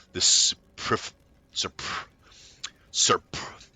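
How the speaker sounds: breaking off mid-word in the accent; stumbling on the word. Real, not acted. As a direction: trip over superf- and trail off. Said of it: "I cannot do that word".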